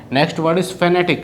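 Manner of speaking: drawn-out word call; teacher calling out the next word; slow announcement. Shown as a demonstration. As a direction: read fanatic out slowly.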